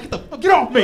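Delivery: hammed-up angry leaf; kale yelling back. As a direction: play the kale shoving you off. Kale voiced fighting back.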